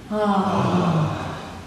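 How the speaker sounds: an easy open ah on the breath; half yawn ah. Shown as a demonstration. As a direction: vocalize a relaxed ah. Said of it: "This is the half yawn".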